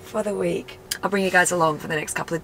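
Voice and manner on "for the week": excited. Retold or imitated. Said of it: "you're like".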